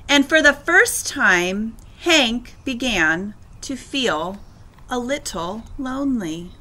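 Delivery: phrase by phrase, softening toward the end; story read-aloud. A narrator's reading. Teacher narrating Hank's new loneliness, softening storybook narration.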